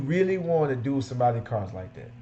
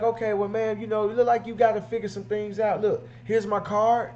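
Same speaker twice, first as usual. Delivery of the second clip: higher, breezy brush-off with a card; smooth detailer pitch; 6 semitones higher than usual. Retold or imitated. Detailer brushing off an undecided customer, breezy and higher. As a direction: politely close the deal and move on. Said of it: "And then he'd be like".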